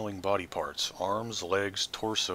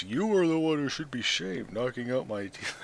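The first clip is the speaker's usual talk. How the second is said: crone scolding; 5 semitones higher, 3 dB louder than usual. Acted. Marta scolds the corpse.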